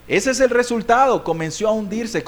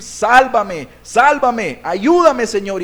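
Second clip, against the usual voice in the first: insistent, mildly raised cry for help; wholehearted plea; 4 dB louder, much slower than usual. Shown as a demonstration. Believer calling on the Lord in trouble, earnestly pleading. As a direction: plead with all your heart. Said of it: "es clamar al Señor".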